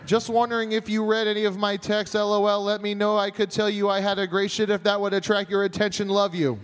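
text read as the mother would say it; mom voice reading. Shown as a demonstration. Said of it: "Here's how you'd read it".

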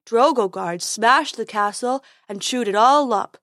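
silly dopey unicorn. Acted.

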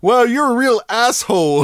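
loud, high, hammed-up pirate. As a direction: bark it like a cranky pirate. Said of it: "pirate impression".

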